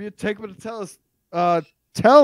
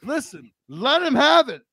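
egging on; 6 semitones higher than usual. Real, not acted. Egging on an argument.

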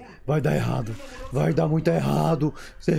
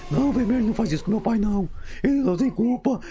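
higher and fast, defending dad; worked-up protest; 5 semitones higher than usual. Real, not acted. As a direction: pitch up and plead his innocence. Child defends cartoon dad, worked up.

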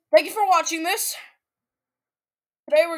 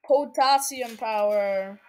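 slow, lower "Potassium power"; drawn-out delivery; 4 semitones lower, slower than usual. Pretend. Repeats phrase in different ways.

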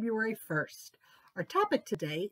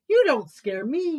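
bored boar; 5 semitones higher, 8 dB louder than usual. Acted. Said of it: "yawned Boar".

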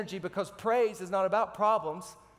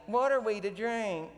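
a mild complaining whine, pushed a little; a touch of a grumbling crowd; grumbling emphasis. Retold or imitated. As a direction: moan it like a thirsty, fed-up crowd. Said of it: "I imagine that's how they would say it. The, the emphasis was mine".

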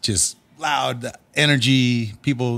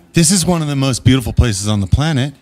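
building to a much higher, louder, slow ecstatic cry; awed exclamation; 11 semitones higher, 5 dB louder than usual. Retold or imitated. Host replaying his thought about the venue, rising to ecstatic awe. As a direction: swell up into pure amazement at the end. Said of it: "And then I quickly think".

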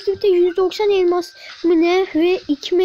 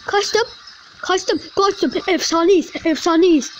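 excited celebration; 4 semitones higher than usual. Real, not acted. Escaping and celebrating in game.

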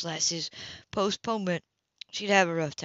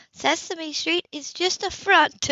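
slow, higher, mock-serious claim; higher, slower, tongue-in-cheek; mock conspiracy; 9 semitones higher, 5 dB louder, slower than usual. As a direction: spin it like a silly conspiracy.

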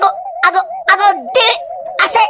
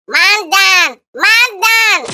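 calling out; 3 semitones higher, much slower than usual. Acted. Calling out after knockdown.

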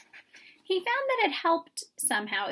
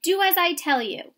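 higher, louder urgent order; urgent command; 7 semitones higher, 6 dB louder than usual. A narrator's reading. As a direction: insist at once. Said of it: "commanded the mouse urgently".

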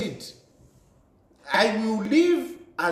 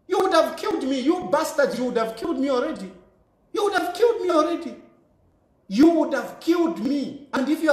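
angry outburst; 6 semitones higher than usual. Real, not acted. To his enemies, accusing them of wanting him dead, furious and high-pitched. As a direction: pitch jumps higher, words rush out in fury. Furious rant about threats to family.

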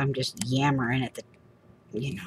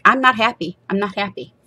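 higher, whiny protest; mock distress; 5 semitones higher, faster than usual. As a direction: plead in comic distress. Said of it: "I'm like".

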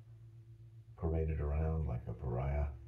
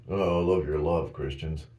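mock gushing, louder; sarcastic; 7 dB louder than usual. Real, not acted. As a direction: fake admiration thrown at Christians.

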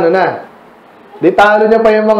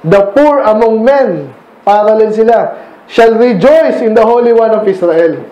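slow scripture reading; slower than usual. Shown as a demonstration. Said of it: "pinaral sila".

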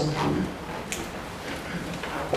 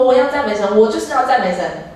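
bold declaration; 3 semitones higher than usual. Retold or imitated. Clown declaring praise to God, retold bold declaration. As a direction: declare it firmly, as a retold vow. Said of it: "很大声的宣告说".

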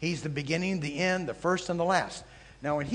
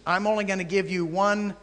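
God's voice; 3 semitones higher, 4 dB louder than usual. Acted. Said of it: "the Aleph and the Tav says to the religious systems".

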